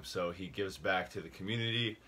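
slightly winded while talking; out of breath. Real, not acted. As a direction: talk a little short of breath. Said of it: "I don't know why I'm out of breath".

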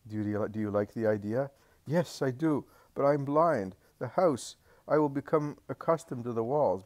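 lightly voiced old man. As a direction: voice the old blind man gently pleading. Narrator voices blind old man.

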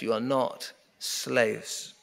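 ordinary talk, nothing marked

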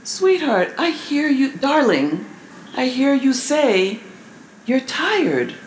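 tender husband. Retold or imitated.

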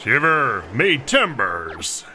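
slow, drawn-out pirate growl; slow hammed-up pirate exclamation. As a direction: savour it like an old sea dog. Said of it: "You gotta remember my pirate voice".

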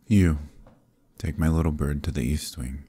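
curt, commanding call; sharp command. Acted. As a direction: snap the word out to call a servant over. Prince commands a servant.

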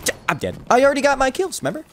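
ordinary delivery

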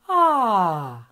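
a descending chest-voice "Ah" slide; demo vocal sigh. Shown as a demonstration. Teacher demonstrates a chest voice slide. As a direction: glide the Ah down toward the low notes. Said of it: "Vai fazer isso aqui, ó".

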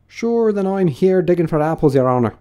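servant Pat. A narrator's reading. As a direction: answer the master as a high-voiced farmhand. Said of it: "a voice she had never heard before".

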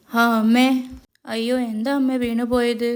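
lightly acted startled cry to mother; a touch of alarm, starting loud; mildly dismayed child calling out. Child reacts to mother falling.

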